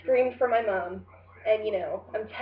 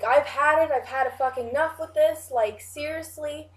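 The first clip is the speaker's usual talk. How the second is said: raised, louder, exasperated yell at mom; imitating blowing up, voice pitched higher and louder; fed-up outburst; 5 semitones higher, 4 dB louder than usual. Fed up with the dream, yelling at mom louder.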